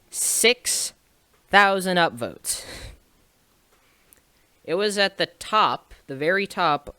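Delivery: excited disbelief. Real, not acted. Reading the morning upvote count, stunned and excited. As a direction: let the number hit you in disbelief. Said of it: "I was pretty excited".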